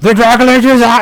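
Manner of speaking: very high, loud, terrified shriek. Retelling how a character hears the news and screams it, acting out a scream. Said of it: "he starts to screaming it".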